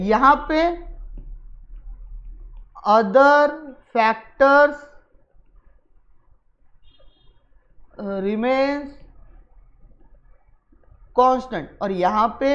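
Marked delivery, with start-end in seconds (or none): 2.9-11.8 slow, words spaced with long pauses; drawn-out, word by word; writing-along pace. Real, not acted. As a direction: say each word as you write it. Writing out the words while saying.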